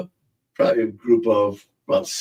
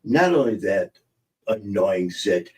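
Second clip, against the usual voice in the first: mock commercial. Pitching Zapsit to older viewers, mock ad voice. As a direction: sell it like a cheesy acne ad. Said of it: "Don't you wish we had a commercial?".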